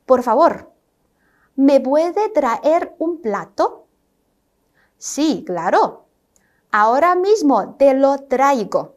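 slow, careful textbook dialogue; slow model dialogue. Shown as a demonstration. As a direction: read the exchange slowly for learners. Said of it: "举个例子". (慢速示范对话)

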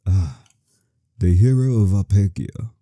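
lightly voiced old storyteller; a hint of a kindly old man. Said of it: "That's that old man voice".

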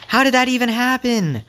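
high-pitched, stunned questions; baffled disbelief. Real, not acted. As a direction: ask it in utter disbelief. Baffled by the glitch.

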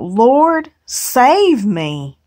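high, loud desperate cry; cry for help. A narrator's reading. Peter sinking in the waves, desperate loud cry. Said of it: "he cried out".

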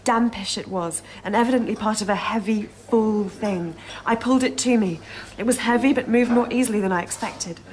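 reading a ghost story. Acted.

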